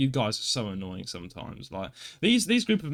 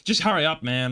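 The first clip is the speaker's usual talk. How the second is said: rude American; 4 semitones higher, 4 dB louder than usual. Retold or imitated. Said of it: "just being really rude".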